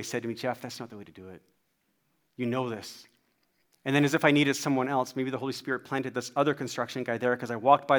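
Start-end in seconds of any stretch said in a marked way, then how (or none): 0.3-3.1 low, soft inner prompting; nicer, gentle reproof. Retold or imitated. Holy Spirit correcting a dad after his outburst, gently. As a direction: correct him softly and kindly. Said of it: "in a nicer way".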